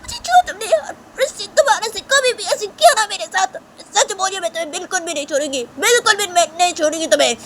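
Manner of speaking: shrieking high and loud in outrage; outraged shrieking; furious screaming. Acted. Shanaya threatens Tisha after pushing her.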